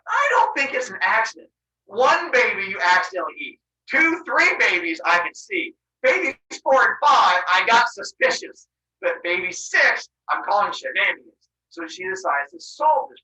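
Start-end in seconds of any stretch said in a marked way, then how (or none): 0.1-11.5 fed-up accusation. Acted. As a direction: count them off with suspicion. Wife suspicious, fed up.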